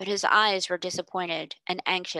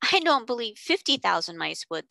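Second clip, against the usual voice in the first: severe; 3 semitones higher than usual. Acted. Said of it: "said Janet severely".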